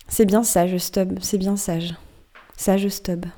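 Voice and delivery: put-on slow, soft mumbling of a toothless old merman; mumbled mutter. Old merman mumbling to Stubb, slow and soft. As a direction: chew the words over slowly like an old crone by the fire. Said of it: "cette phrase qu'il marmotte".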